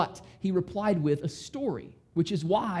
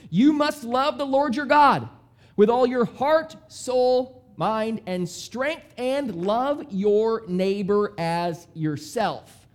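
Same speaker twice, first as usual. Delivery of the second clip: proclaiming the law; 3 dB louder, slower than usual. Retold or imitated. Scholar reciting the great commandment, loud then slow. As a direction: recite it like a creed. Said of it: "The man answered".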